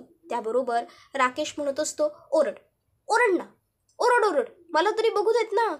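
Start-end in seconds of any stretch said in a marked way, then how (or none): 2.3-5.8 higher-pitched mocking goad; taunting dare. Villain daring the cornered woman to scream, taunting. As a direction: egg her on tauntingly.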